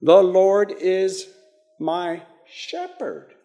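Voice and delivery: slow phrase, leaning on "shepherd"; stress on shepherd. Shown as a demonstration. Preacher showing which word to underline in the psalm, stress on "shepherd". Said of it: "as you emphasize the different".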